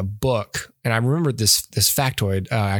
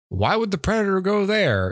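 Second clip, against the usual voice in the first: high, puzzled fan voice; mock complainer voice; 9 semitones higher than usual. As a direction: voice a baffled viewer. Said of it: "I don't think anyone has been like".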